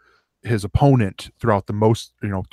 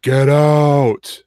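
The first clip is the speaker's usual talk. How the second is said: loud gruff shout of get out; 5 semitones higher, 5 dB louder than usual. Retold or imitated. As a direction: bark it at the intruder. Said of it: "Andre the Giant just goes".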